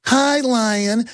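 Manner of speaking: high-pitched gazelle greeting; sweet, high animal-character voice; naive little gazelle. Acted. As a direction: chirp it like a trusting little gazelle.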